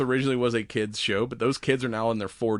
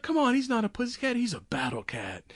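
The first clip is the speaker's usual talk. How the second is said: hammy cartoon voice; 12 semitones higher than usual. Voicing a cartoon character.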